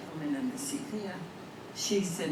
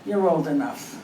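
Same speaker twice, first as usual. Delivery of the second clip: punchline; 7 dB louder than usual. Acted. Clerk's punchline.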